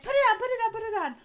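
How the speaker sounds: high, insistent mock excitement; hammed-up eager squeal; eager urging. Acting out Jamie urging Chris.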